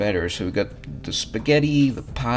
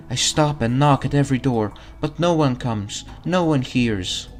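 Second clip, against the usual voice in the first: lightly voiced lost ghost girl; mournful ghost; 4 semitones higher, 3 dB louder than usual.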